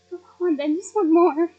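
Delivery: beaming, loud yes to another goblet; cheerful giving in. Acted. Happy Lupin accepts another drink.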